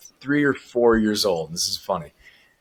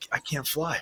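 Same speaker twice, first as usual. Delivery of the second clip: put-on dazed kid; 14 dB quieter than usual. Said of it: "I'm like".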